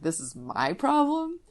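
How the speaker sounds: mock the thought with drawn-out disbelief; incredulous thought. Dad silently reacting to daughter's friend fight, slow incredulous voice. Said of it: "I'm like, in my head".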